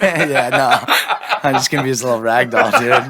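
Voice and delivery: laughing through a joke; giggling while talking. Real, not acted.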